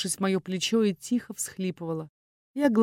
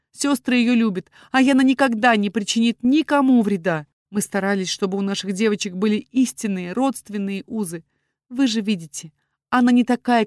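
pleading; 4 semitones higher, 6 dB louder than usual. A narrator's reading. Father pleads with the duke.

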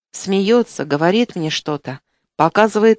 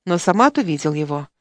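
usual speaking voice

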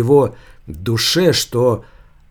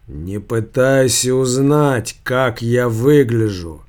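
sepulchral voice. Acted. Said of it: "замогильный голос".

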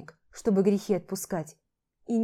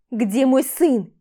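louder and slow, every word weighted; a mother pleading for her son; slow desperate demand; 4 semitones higher, 8 dB louder, much slower than usual. Acted. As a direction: drag out the question in dread.

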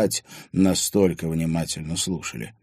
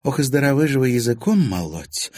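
sassy retort; 8 semitones higher, 5 dB louder than usual. A narrator's reading. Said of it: "подбоченилась Марьяна".

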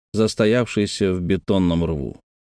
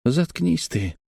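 put-on boy's higher-pitched angry retort; angry hiss; 7 semitones higher, 3 dB quieter, slower than usual. A narrator's reading. Brother shuts up his teasing sister, angry hiss in a boy voice. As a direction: snap back as an irritated boy, without shouting. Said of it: "злобно прошипел".

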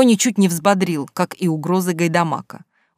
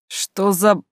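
choking with indignation; 2 semitones higher, much slower than usual. A narrator's reading. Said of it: "задохнулся от возмущения".

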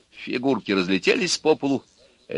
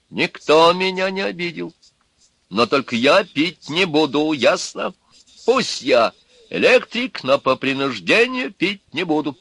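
higher, louder, firm refusal; stubborn electrician; 7 semitones higher, 3 dB louder than usual. A narrator's reading. Electrician refusing to drink to the others, stubborn. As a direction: dig your heels in.

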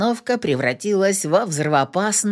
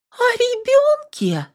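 much higher, slow stunned echo; shocked; slower than usual. A narrator's reading. Yana stunned to hear about the baby. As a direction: echo it in disbelief.

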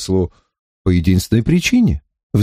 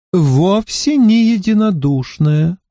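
soft pleasant voice; 7 semitones higher, slower than usual. A narrator's reading. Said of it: "Голос этот был мягким и приятным на слух".

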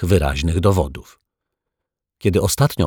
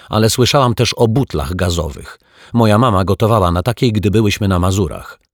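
put-on indignant girl; 3 semitones higher, 3 dB louder than usual. Offended girl argues back.

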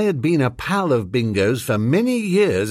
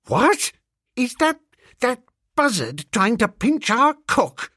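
high outraged squawk; outraged cry; 11 semitones higher than usual. A narrator's reading. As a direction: cry out in agony. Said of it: "uttered a frightful cry of agony".

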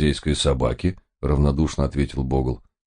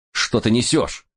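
a higher, sharp rebuke; snapping at him; 8 semitones higher than usual. A narrator's reading. Narrator snaps at the rambling Bogle. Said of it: "прикрикнул я на него".

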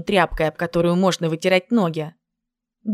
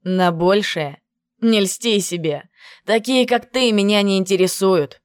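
mocking. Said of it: "он насмешливо произнёс".

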